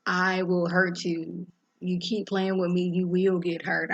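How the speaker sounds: slow, deliberate menacing warning; slow threat. Retold or imitated. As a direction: spell out the threat word by word, slowly. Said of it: "And Priscilla's like".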